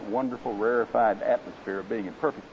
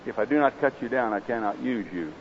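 graver master; 2 semitones lower, 3 dB quieter than usual. Acted. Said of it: "the master's voice grew graver still".

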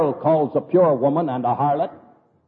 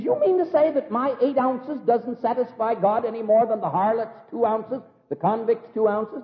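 indignant protest; 5 semitones higher than usual. Retold or imitated. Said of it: "And he yells".

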